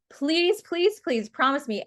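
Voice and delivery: high, eager begging please; earnest high-pitched please, please; pleading. Real, not acted. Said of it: "begging the audience to promise".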